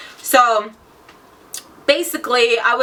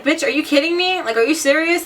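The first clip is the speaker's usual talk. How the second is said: retold mad outburst; 5 semitones higher than usual. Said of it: "Like, oh, I was so mad".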